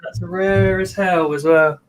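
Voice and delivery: slow, drawn-out repetition; emphatic repeat. Real, not acted. Bug owner repeating himself for a co-host, slow and clear. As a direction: spell it out slowly and audibly. Repeats it after being asked what.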